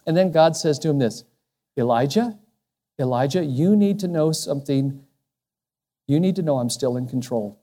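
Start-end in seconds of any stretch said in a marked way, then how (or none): 1.8-7.6 hushed divine reassurance; God's voice. Acted. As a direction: speak as God, calming a frightened prophet. God speaking gently to Elijah.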